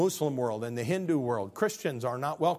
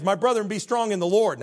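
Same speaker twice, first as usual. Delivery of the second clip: louder scripture; 6 semitones higher, 6 dB louder than usual. Shown as a demonstration. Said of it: "it says".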